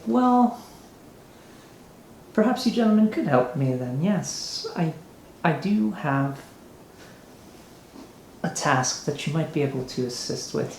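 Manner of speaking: a hint of a giddy, scheming noble offering a job; giddy mayor. Mayor offers adventurers a task, lightly flamboyant voice.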